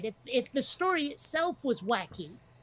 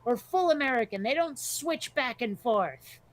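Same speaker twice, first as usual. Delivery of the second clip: comedian's bit; 4 semitones higher than usual. Retold or imitated. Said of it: "he's like".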